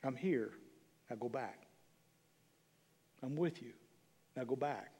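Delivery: low-key, tender but firm; gentle divine instruction. Acted. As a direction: quietly send someone back out. Voices the Lord sending disciples back.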